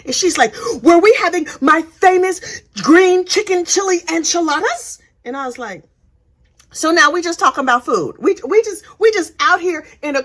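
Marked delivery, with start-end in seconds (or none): 0.8-5.0 mock Lori. Lori voiced in retold trial.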